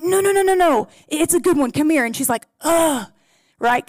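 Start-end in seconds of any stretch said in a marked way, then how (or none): 0.0-2.0 higher, coaxing no, no, no; sing-song insisting it's a good one; playful insisting. Retold or imitated. Aunt coaxing her niece to come hear the secret, playful. 2.6-3.1 annoyed. Retold or imitated. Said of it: "Kind of annoyed".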